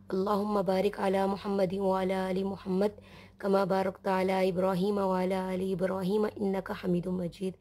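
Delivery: measured Arabic prayer recitation; Durood recitation. Real, not acted. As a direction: recite the blessing as a steady, even prayer. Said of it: "हम दुरूद शरीफ पढ़ते हैं".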